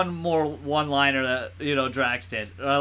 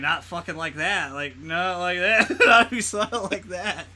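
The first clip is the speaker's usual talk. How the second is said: laughing Drax quote; 4 semitones higher than usual. Retold or imitated. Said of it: "And he's like".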